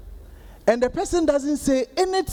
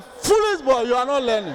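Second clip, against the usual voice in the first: teacher berating a pupil; mock scolding. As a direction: scold the foolish boy. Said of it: "it's like".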